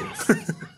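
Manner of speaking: brief, very high snicker; laughing. Real, not acted. Viewer reacting to the push, short high laugh.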